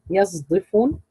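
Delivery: يصدفون with the sad voiced towards z; ishmam of sad. Shown as a demonstration. Teacher asking for similar words, يصدفون with ishmam. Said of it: "إشمام الصاد الساكنة".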